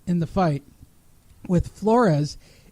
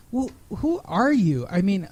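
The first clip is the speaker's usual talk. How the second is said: normal talking voice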